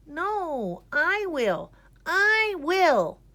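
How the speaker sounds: eager cry. A narrator's reading. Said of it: "cried Greta".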